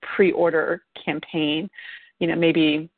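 hiccuping between words; with hiccups. Real, not acted. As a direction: talk through the hiccups. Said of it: "sorry, I have the hiccups now".

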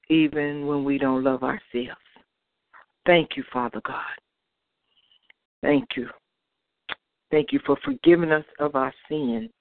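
earnest closing prayer to God. Acted. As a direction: pray it from the heart.

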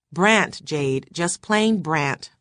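"plain" drawn out slowly, "Brandt" given alone; correcting the name. Acted. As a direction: correct her, slow on "just plain Brandt". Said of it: "The Von is imaginary".

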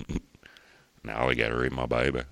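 badly faked American with Australian vowels; American accent attempt sliding into Australian. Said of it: "immediately went to an Australian attempt".

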